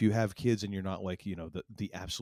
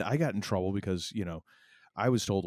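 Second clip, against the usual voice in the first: usual speaking voice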